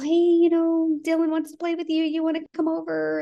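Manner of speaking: high bright fake-casual ask; acting all normal. Grandmother asking neighbour's boy over, high and falsely cheerful. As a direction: sound breezy for the boy's sake. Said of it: "trying to act all normal".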